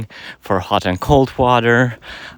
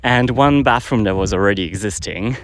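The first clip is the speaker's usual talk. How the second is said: out of breath from walking uphill. Real, not acted. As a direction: talk while climbing a hill, short of breath. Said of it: "I'm out of breath a bit 'cause I'm walking up a hill".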